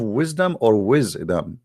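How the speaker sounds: wisdom, then "wisdom" drawn out as "wiz-dum"; split pronunciation. Shown as a demonstration. Asking Muslims if they have wisdom, wiz-dumb said slowly. Contrasts two ways of saying wisdom.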